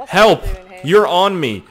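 loud high yell for help; mock cry for help. Goat yelling for help while pinned down, mock panic. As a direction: shout it out in hammed-up panic.

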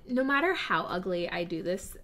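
usual speaking voice

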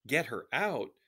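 put-on incredulous question in a light southern French accent. A narrator's reading. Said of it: "said a man with a southern French accent".

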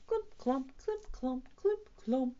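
evenly spaced, lightly stamped steps; medium footsteps. A narrator's reading. Rufus heads into the valley, steady footsteps. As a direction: pace out the footfalls a bit lightly.

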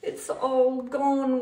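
loud, drawn-out wail; acted weeping. A narrator's reading. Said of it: "wept Roy".

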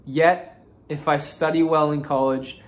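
measured, carefully enunciated reading of a written essay; essay read-aloud. Real, not acted. Student reading a college application essay to viewers, measured read-aloud. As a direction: read it out like a prepared composition.

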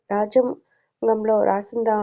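slow, deliberate sarcastic jab; slow mocking question to his doubting partner; slow sarcastic retort. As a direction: drag the question out slowly to mock him.

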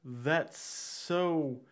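slow, drawn-out judgment with a heavy pause; imitated withering verdict, dropping at the end; retold disapproving remark. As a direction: pause before delivering the put-down. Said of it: "and he's like".

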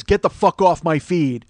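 slow, deliberate tough-guy put-down; mock tough guy. Baseball guy to mean tweeters, mock tough. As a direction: imitate someone acting tough online. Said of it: "how tough are you?".

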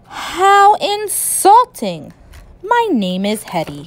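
slow, offended mock growl; angry growl. Monster Hetty offended at George, in a slow mock growl. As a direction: drag it out, indignant. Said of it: "with the angriest growl".

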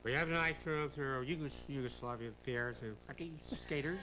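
a mild, stiff TV-host introduction in a borrowed voice; half-hearted take on the host announcing an act; Ed Sullivan impression. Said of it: "Ed Sullivan used to talk".

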